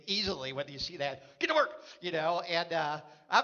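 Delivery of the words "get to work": a quick mock bark at idle staff; mock yell. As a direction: snap it like an annoyed manager. Imagined manager yelling at staff.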